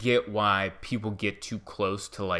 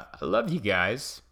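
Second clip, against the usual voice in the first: cracking with feeling; slower than usual. Real, not acted. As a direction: voice breaking on love. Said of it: "why my voice cracked".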